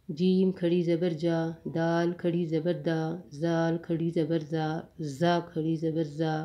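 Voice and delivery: even, level chant with each final vowel held long; qaida spelling recitation. Shown as a demonstration. Teacher reading khari zabar for students, drilled long vowels. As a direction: recite each letter and mark, stretching the last syllable. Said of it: "دوبارہ پڑھتے ہیں".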